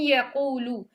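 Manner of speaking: tajweed reading of यकूलू, noon merged into ya; Quranic recitation demo. Shown as a demonstration. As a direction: recite यकूलू with nasal ghunna. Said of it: "सो हम इसको इदगाम कर देंगे और बिगुन्ना".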